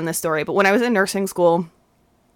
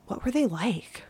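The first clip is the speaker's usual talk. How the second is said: much softer, imitated deadpan question; imitated straight-faced tone; 3 semitones higher, 9 dB quieter than usual. Classmate asking about psychiatric patients, hushed and straight-faced. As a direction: drop the volume, mimic a dead-serious asker. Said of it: "in that, in that tone, too".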